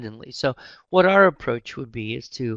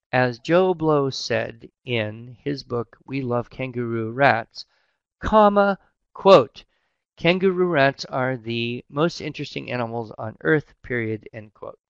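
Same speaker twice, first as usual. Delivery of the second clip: dictating. Shown as a demonstration. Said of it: "So it's an integrated quotation".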